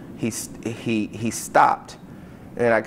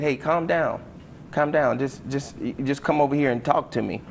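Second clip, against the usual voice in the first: higher-pitched, insistent retold plea; urging calm; 4 semitones higher than usual. Coach tells upset student to calm down, urging. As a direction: talk someone down, pitched up a bit.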